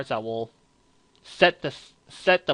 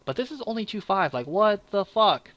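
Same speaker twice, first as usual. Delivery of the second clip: high-pitched exasperation, slowing into the swearing; exasperated disbelief; 8 semitones higher than usual. Real, not acted. Card reviewer bugged by a weak backup, exasperated and incredulous. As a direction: vent in disbelief, dragging out the last words. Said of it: "it really bugs me".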